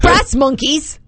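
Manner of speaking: high amateur British accent; attempted British accent. Shown as a demonstration. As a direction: announce it in a put-on British accent. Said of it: "say these all with a British accent".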